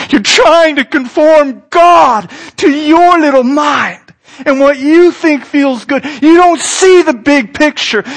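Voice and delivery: forceful rebuke. Acted. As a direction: scold firmly, hammering each point home.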